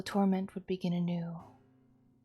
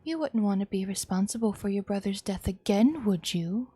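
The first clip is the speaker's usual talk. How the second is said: knife-point threat. Acted.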